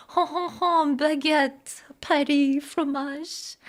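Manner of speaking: lightly voiced French-cliché teasing; a hint of a French accent, tongue in cheek; mock French accent. Streamer teasing the French chatter with clichés in a light mock French accent. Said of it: "the most French accent".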